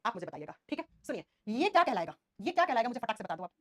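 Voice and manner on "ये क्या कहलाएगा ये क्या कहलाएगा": firm and loud, calling out to the class; teacher calling the question out loud; loud quiz question. Real, not acted. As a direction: demand the answer from the whole room. Teacher quizzing class, repeats question.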